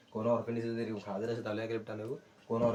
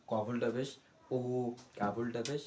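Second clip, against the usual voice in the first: recitation drill. Shown as a demonstration. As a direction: chant each letter in a steady rhythm. Continues letter recitation drill.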